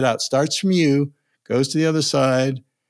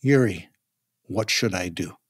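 weary; 7 semitones lower, 4 dB quieter than usual. Retold or imitated. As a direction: lower and softer, imitating a tired, defeated voice. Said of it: "in a kind of weary tone of voice".

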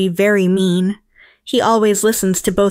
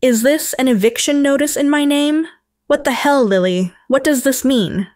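raised, indignant voice, higher; angry demand; 5 semitones higher than usual. A narrator's reading. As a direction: confront her stepdaughter in outrage. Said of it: "Her expression turned angry".

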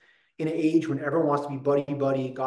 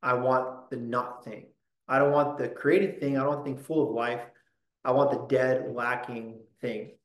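voicing the sinner; 2 semitones lower than usual. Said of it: "we say".

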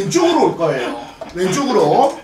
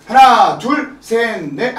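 dance count; much slower than usual. Real, not acted. Dance teacher counts for pupil.

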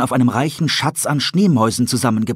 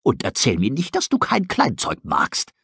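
gruff owl; 2 semitones higher than usual. Acted. Tully urging the starving wolf, mock gruff. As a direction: tease him into eating. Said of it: "fauchte er".

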